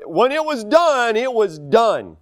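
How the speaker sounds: "done" drawn out, falling with finality; slow, emphatic weight on each "done"; stress on DONE. Real, not acted. Son praising his dad's finality, stretching "done".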